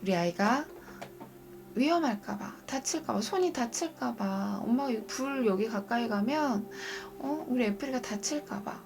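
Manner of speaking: put-on gentle, soft coaxing of a child; calm the little one down with kind words; mother gently explaining to her frightened child; soothing mother. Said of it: "어르고 달래주고 좋은 말로".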